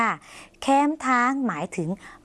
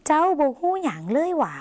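high, swooping tone of uncertainty; doubtful question; 6 semitones higher than usual. Shown as a demonstration. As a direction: wonder aloud in Lao, stretching หว่า at the end. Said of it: "น้ำเสียงแบบสงสัยไม่แน่ใจค่ะ". (น้ำเสียงสงสัยไม่แน่ใจ เสียงสูง ลากคำท้าย)

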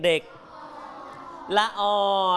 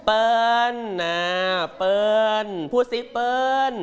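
northern word demo; slower than usual. Shown as a demonstration.

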